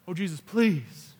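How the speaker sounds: slow, drawn-out mock plea; mock pleading. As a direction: beg with an exaggerated long "please". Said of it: "It doesn't say she pleaded".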